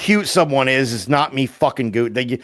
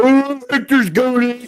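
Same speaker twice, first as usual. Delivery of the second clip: mock praise; 10 semitones higher, much slower than usual. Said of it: "you would be like".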